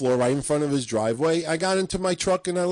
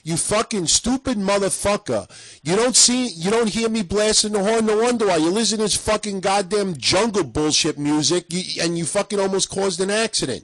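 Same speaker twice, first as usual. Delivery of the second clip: retold angry rant; 5 semitones higher than usual. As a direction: chew out the driver again as you tell it. Retold yelling at other driver.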